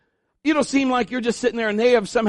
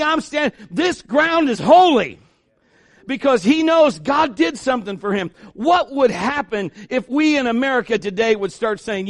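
bold declaration; 3 semitones higher than usual. Acted. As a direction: declare it like a vow. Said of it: "He says".

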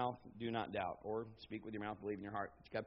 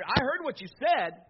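louder, higher, slow excited report; excited Peter; 6 semitones higher, 7 dB louder than usual. Retold or imitated. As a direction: Peter marvelling at what he heard. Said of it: "he's repeating to Jesus what he heard".

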